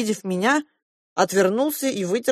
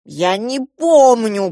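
slow, louder moaning protest; groaning; 4 semitones higher, 7 dB louder, much slower than usual. A narrator's reading. Uncle Yura groaning that he can't remember. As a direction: moan it out in dismay. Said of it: "простонал дядя Юра".

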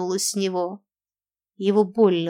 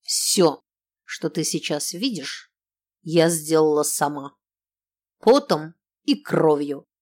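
boastful; 3 semitones lower than usual. Acted. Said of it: "хвасталась именинница".

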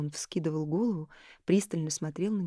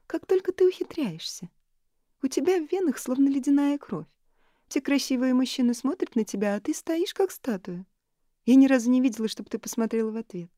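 высоко и громко, с изумлением; всплеснув руками, поражаясь подруге; изумлённо; 8 semitones higher, 6 dB louder than usual. A narrator's reading. (Элис поражается холодности Нори)

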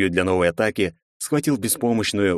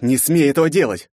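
sudden roar; 7 semitones higher, 4 dB louder than usual. A narrator's reading. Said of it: "внезапно рыкнул он, да так громко".

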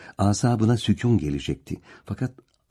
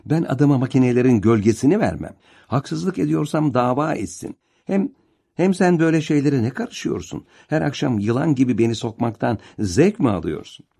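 raised, heated voice of a furious stepfather; angry stepfather; 4 semitones higher than usual. Acted. Vehbi Bey öfkeyle bağırıyor. (öfkeli, yüksek sesle azarlayan adam)

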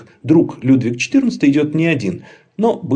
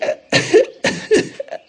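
fake raspy cough. Laban fakes a cough.

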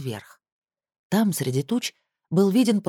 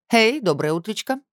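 bright, perky morning greeting; cheerful; 6 semitones higher than usual. A narrator's reading. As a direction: chirp it cheerfully. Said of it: "бодро сказала она".

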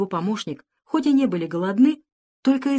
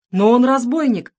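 louder, higher frightened protest; wailing cry; 5 semitones higher, 6 dB louder than usual. A narrator's reading. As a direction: cry out in alarm. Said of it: "завопил монах". (испуганный громкий вопль)

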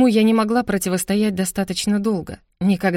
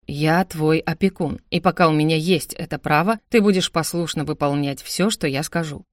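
lightly lowered, firm male part; stern guardian; 3 semitones lower than usual. Acted. Brother asserting guardianship over his sister, lightly voiced and stern. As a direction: assert authority with measured control.

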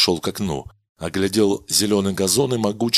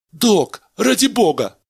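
much higher, louder terrified cry; desperate plea; 11 semitones higher, 5 dB louder than usual. Acted. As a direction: plead with the doctor. Begging at gunpoint.

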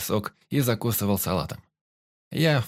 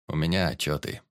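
sighing; 5 semitones lower than usual. Acted. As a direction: let it out with a slight sigh. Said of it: "вздохнул Ром".

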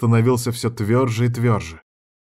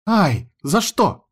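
high, slow astonished cry; a startled, wounded protest; surprised; 8 semitones higher, much slower than usual. Acted. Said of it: "изумилась та". (удивлённо, высоко и протяжно)

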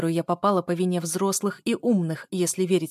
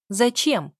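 higher, louder demanding question; louder repeat; 5 semitones higher, 6 dB louder than usual. A narrator's reading. Daughter pressing father about the gun, louder. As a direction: repeat the question with more force. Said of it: "повторила я громче".

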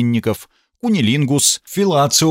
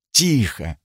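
pleading. Acted. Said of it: "сказал я умоляюще".

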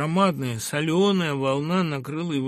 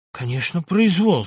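emboldened; 3 semitones higher, 5 dB louder than usual. Acted. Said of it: "подбодряемый криком".

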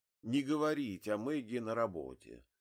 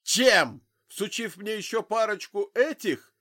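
loud, high bellow of contempt; roaring; 11 semitones higher, 11 dB louder than usual. A narrator's reading. Drunk father roars at Zig over the leaflets, angry bellow. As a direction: roar it back at him. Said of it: "взревел мужчина".

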